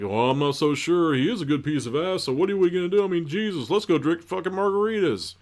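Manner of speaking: high-pitched mock girl talk; waver, then rally the girls in a high voice; soap-opera girlfriend. Girlfriend weighing a breakup with friend, high mock chatter.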